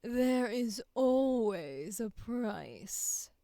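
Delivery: "Darling" leads in, then a slow villain line with a rise on "always". Shown as a demonstration. Actor leading into the line with "Darling". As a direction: ease in with darling, then drawl the threat. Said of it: "do the voice and lead into it".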